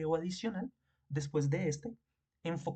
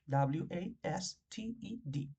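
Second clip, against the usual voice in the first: deletreo lento; 3 dB quieter, much slower than usual. Shown as a demonstration. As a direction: spell W A S T E D slowly, letter by letter. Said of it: "le ponemos la D". (deletreando "wasted" muy despacio para la clase)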